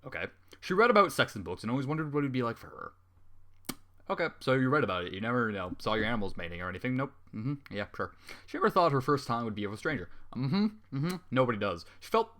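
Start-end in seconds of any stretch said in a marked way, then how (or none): none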